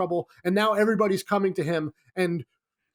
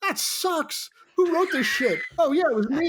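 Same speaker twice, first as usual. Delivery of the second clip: self-mocking disgust; 8 semitones higher than usual. Mocking his own bad line.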